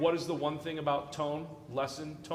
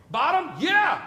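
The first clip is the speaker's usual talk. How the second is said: excited cheer; 11 semitones higher, 10 dB louder, slower than usual. Real, not acted. Student gives right answer.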